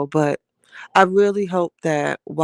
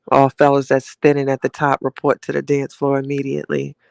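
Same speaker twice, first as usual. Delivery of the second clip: mock club DJ calling out to the floor; playful DJ shout-out to the room; DJ announcement. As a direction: hype up the crowd like a lounge DJ. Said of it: "D J Chatty Lounge".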